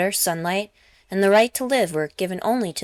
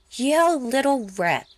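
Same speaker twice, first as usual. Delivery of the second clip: higher and slow, a shocked gasp; 8 semitones higher, slower than usual. A narrator's reading. Woman shocked at a conscript shooting his kin, gasping. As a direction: gasp it out in disbelief. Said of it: "Karita Keitel gasped".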